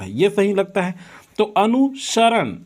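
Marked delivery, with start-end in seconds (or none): 1.6-2.6 अनुसरण said slowly, syllable by syllable; a teacher sounding out अनुसरण; drawn-out spelling demo. Shown as a demonstration. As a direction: stretch अनुसरण out like spelling it for the class. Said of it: "दोनों option अगर आपके लिखे हैं".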